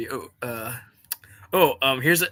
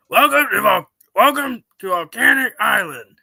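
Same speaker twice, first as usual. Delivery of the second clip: SpongeBob quote voice; 6 dB louder than usual. Retold or imitated. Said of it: "here's one from the SpongeBob episode".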